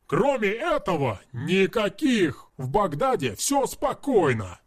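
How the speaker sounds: shouting. Acted. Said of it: "выкрикнул".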